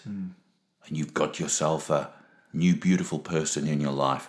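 deep, very low, soothing, empathetic late-night voice. Asked to speak into the mic in late-night TV style: gentle late-night TV voice. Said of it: "Do you want something gentle?".

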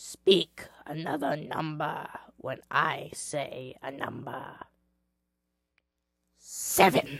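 soft croaking voice. Game master voicing someone behind a castle door's little sliding hatch, croaking voice. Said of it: "a croaking voice says".

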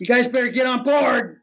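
high-pitched calling out. Playing a character calling the others onto a boat: yelling to the crew. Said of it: "I'll yell at the guys".

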